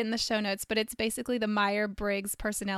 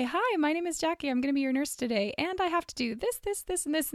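nurse greeting; 4 semitones higher, 4 dB quieter than usual. Retold or imitated. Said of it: "I'll walk into a room and I'll say".

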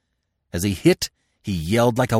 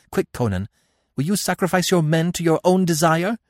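higher, reproachful princess voice; Devi; 5 semitones higher than usual. Acted. Devi accusing Conan of leaving her to die, higher reproachful voice. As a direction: plead and accuse him at once, pitched up.

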